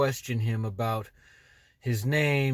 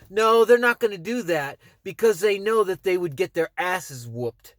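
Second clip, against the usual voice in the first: angry; 3 semitones higher than usual. Real, not acted. Rant challenging the police.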